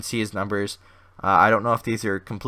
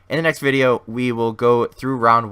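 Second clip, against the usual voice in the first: louder restart; 6 dB louder than usual. Real, not acted. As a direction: restart the line with more push. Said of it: "I don't know why it's still simulating".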